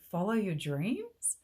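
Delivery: mock-quote "Follow your dreams?" with a scornful rising tune; mocking echo. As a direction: throw his line back at him in disbelief. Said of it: "you get on there and say".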